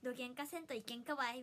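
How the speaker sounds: lightly imitated Hakata dialect. Streamer showing off a learned phrase, Hakata dialect. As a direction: quote a friend's Fukuoka dialect playfully. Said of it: "博多弁の女がめっちゃ".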